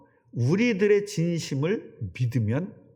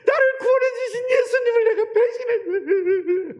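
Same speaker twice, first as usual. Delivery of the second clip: high, loud wailing lament; 5 dB louder than usual. Acted. Preacher voicing Peter wailing after betraying Jesus. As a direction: cry out in a hammed-up wail of guilt. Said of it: "하면서 막 통곡을 한 겁니다".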